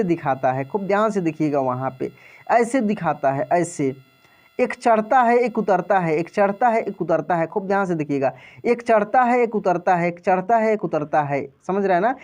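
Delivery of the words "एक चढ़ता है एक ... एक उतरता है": sing-song up and down, like a heartbeat line; rhythmic teacher chant; rising and falling like a heartbeat. Shown as a demonstration. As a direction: lift each चढ़ता up, drop each उतरता down. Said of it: "heart beat कैसे दिखाता है".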